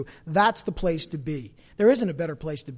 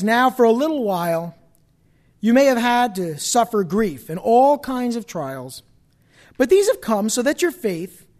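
raised preaching voice, reading aloud; scripture proclamation; 5 semitones higher, 6 dB louder than usual. A narrator's reading. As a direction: declare the verse with measured weight.

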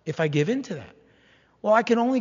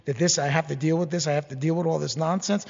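mock grumbling; 3 semitones lower than usual. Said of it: "go on and on about how horrible your life is".

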